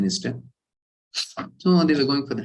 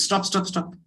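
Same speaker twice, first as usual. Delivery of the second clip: calling stop; 9 semitones higher, 3 dB quieter than usual. Retold or imitated. Tribal chief stops the sacrifice, high urgent call. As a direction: halt them with a sharp high cry.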